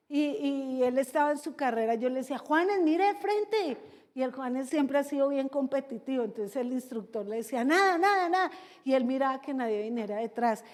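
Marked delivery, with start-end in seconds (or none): 2.4-3.8 high, drawn-out coaching call; llamado de entrenador. Retold or imitated. Coach calling to a swimmer. 7.7-8.5 higher, louder coaching call; arenga de instructor. Retold or imitated. Instructor urging a swimmer on.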